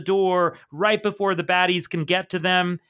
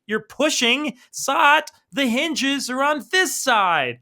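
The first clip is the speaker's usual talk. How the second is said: higher, incredulous and scolding; exasperated Jenny; 6 semitones higher, slower than usual. Retold or imitated. Jenny scolding Zot about the hinges, exasperated and slow. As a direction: spell it out slowly to a clueless friend.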